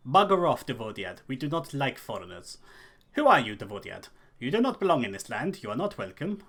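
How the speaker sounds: hostile Dunlending villager, lightly voiced; a touch of rough Dunlending accent, telling a foreigner off; Dunlending local sneering at an outsider. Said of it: "Dunlending accent".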